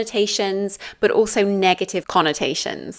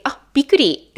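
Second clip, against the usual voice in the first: higher-pitched Japanese exclamation of surprise; 6 semitones higher, 4 dB louder, faster than usual. Shown as a demonstration. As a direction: exclaim it as if startled, demonstrating. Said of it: "the emotion of surprise".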